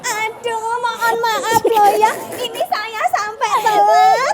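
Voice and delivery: comic co-host character voice. Acted. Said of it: "co-host kita, Tridi".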